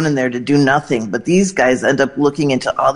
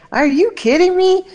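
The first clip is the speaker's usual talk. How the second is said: much higher, mock-astonished put-on voice; imitating Dolly. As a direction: squeal it up high like she can't believe it. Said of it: "And she was like".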